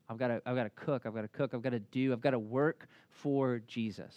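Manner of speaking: busy Martha. Retold or imitated. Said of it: "Martha immediately gets to work".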